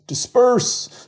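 very high, loud drawn-out command; yelled order. A narrator's reading. Police chief ordering the crowd again, loud yell. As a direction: bellow the order over the crowd. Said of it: "Sullivan yelled again".

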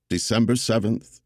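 December seventh delivered like a solemn address; Roosevelt's cadence. Acted. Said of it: "I embraced the cadence of it without trying to do the voice".

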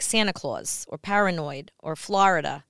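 New York accent on each example word; lingering New York vowels. Shown as a demonstration. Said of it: "still say with a New York accent".

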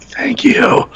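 laughing thanks. Retold or imitated. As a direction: imitate a relieved, amused thanks through a laugh. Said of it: "Kevin was like".

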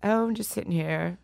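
put-on affected English accent; lightly hammed English accent. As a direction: play an aloof star in put-on English. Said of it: "an English accent".

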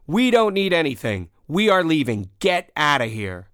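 firm, deliberate order to back off; storyteller's take on taking charge; commanding. Retold or imitated. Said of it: "in the most commanding voice I could muster".

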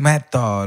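"meto" said the Chiriquí way; "meto" in Chiriquí style; Chiriquí word. Shown as a demonstration. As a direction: demo "meto" as a chiricano says it. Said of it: "tiene que decir".

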